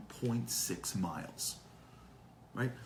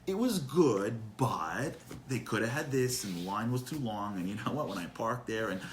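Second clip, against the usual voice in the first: mock complaining. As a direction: pile up petty gripes in mock reluctance. Acted vacation complainer, qualified praise.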